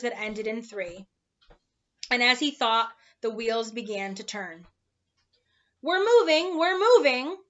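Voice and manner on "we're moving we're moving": higher, louder joyful cry; happy shout. Acted. Milo thrilled the car moves, shouting happily. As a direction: cheer it out, delighted. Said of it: "he shouted happily".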